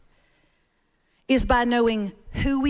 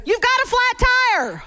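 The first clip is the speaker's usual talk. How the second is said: other driver's flat reply; 9 semitones higher than usual. Retold or imitated. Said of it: "he goes".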